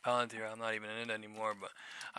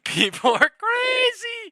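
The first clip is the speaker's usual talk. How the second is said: very high, loud laughing through words; 14 dB louder, slower than usual. Real, not acted. Streamer laughing at crazy traders, high loud laughing.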